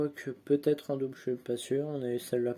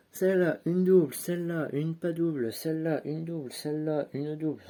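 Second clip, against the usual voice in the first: excited sorting; 4 semitones higher, 6 dB louder than usual. Real, not acted. Rapid sorting of duplicates.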